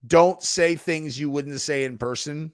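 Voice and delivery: measured, emphatic slogan; quoted slogan. Retold or imitated. Streamer quoting an online rule, emphatic. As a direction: say it like a stock rule, spelled out. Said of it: "I don't get too heavy on the".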